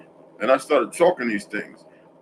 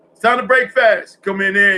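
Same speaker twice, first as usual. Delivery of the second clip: quoting grandpa; 8 semitones higher, 4 dB louder than usual. Retold or imitated. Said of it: "I knew that from my grandpa".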